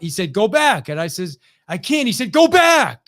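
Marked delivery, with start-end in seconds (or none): 0.3-0.9 raised, louder order that allows no argument; yelling coach. Retold or imitated. Coach to a swimmer questioning the order, yelling. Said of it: "And he yelled at me". 1.7-2.1 pleading protest. Retold or imitated. Exhausted swimmer protesting to coach. 2.3-3.0 full, high-pitched shout; yelling coach. Retold or imitated. Coach to swimmer who says he can't, full yell. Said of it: "And he yelled at me".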